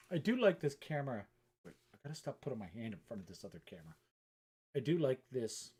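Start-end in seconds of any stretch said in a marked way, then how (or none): 4.8-5.7 hiccups. Real, not acted. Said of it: "got the hiccups".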